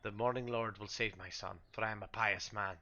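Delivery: lightly voiced pious father, insisting; insistent priest. Priest rejects putting his turned son down, insistent.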